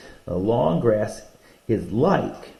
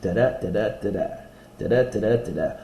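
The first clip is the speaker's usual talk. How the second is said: chanted da-da stress pattern; meter beat; faster than usual. Shown as a demonstration. Teacher showing students the meter, chanted beats. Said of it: "we're gonna study these rhythms".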